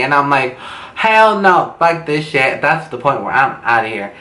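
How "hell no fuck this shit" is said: mock outrage, refusing on the spot; indignant refusal. Teller refusing after a warning about cops, indignant.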